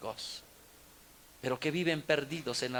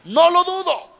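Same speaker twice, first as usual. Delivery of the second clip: high, loud, emphatic burst; exclaimed refrain; 13 semitones higher, 14 dB louder than usual. Acted. Preacher to the congregation about fickle spouses, loud and high. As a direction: throw the line out with a sudden flare.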